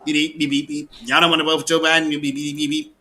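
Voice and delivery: lampoon him as a fast-talking hustler; mocking impression of him. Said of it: "Like, you know".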